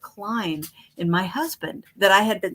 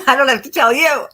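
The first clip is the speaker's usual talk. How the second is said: laughing out loud, then a bright aside; 8 semitones higher, 9 dB louder, faster than usual. Real, not acted. Laughing to the group about the bad years. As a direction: burst into laughter and share the joke.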